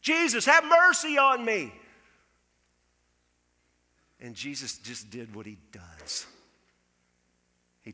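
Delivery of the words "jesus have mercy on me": slow, high, loud desperate plea; crying louder. Acted. Bartimaeus crying out again over the crowd, slow loud plea. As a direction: drag it out and shout over the crowd. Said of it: "He starts crying louder".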